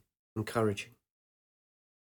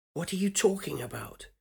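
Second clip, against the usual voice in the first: higher voice, stress on "you"; "you" pressed harder in the question; young woman voice; 6 semitones higher, 4 dB quieter than usual. Acted. Woman repeats her question.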